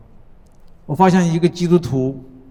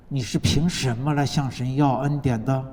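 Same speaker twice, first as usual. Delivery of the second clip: softer, lower probing question; quiet questioning; 3 semitones lower, 6 dB quieter than usual. Retold or imitated. The Spirit quietly asking the believer about grace, soft. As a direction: ask it softly, almost inwardly. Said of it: "圣灵会悄悄地问你".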